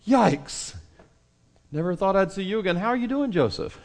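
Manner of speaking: a brother nervously greeting the brother he sold; awkward nervous brother. Retold or imitated. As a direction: play the guilty brother caught out. Imagining brothers greeting Joseph.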